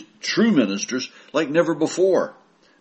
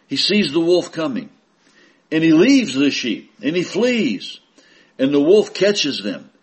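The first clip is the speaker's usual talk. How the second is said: raised, ringing scripture reading; preaching scripture; 4 semitones higher, 4 dB louder than usual. Acted. Preacher reading Jesus' words aloud, proclaiming. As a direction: proclaim the verse to the flock.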